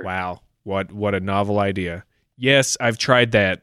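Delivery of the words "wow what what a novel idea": sarcastic. Acted. Caller mocks obvious tech advice.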